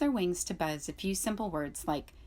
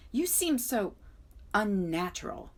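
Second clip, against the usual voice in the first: owl voice; 3 semitones higher than usual. A narrator's reading. Owl continues.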